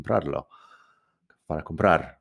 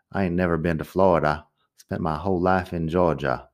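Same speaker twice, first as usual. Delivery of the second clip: Georgia accent. Shown as a demonstration. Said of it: "el sonido más o menos del acento de por ahí".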